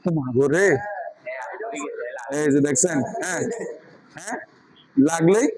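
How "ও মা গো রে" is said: play-acted cry at touching a hot pot; mock burn yelp. Teacher acting out a hot pot for students, mock pained exclamation. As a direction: yelp as if your fingers got scalded.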